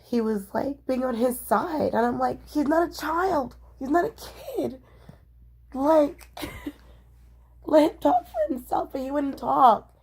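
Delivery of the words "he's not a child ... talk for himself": retold outburst. Retold confrontation with roommate.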